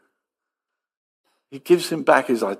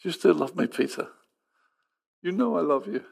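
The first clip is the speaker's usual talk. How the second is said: gentle; 3 semitones higher, 6 dB quieter than usual. Pretend. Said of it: "It's that gentleness".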